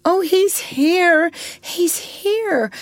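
high, drawn-out cry of relief; overjoyed relief. A narrator's reading. Mother finds her son safe.

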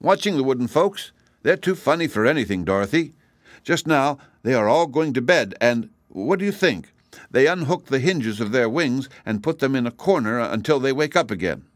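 a hint of an excited kitten. Kitten voiced by narrator.

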